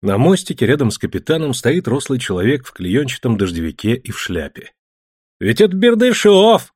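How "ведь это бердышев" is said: surprised high exclamation; a man recognising someone, exclaiming. A narrator's reading. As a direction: cry out in recognition, higher and louder. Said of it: "воскликнул Силин".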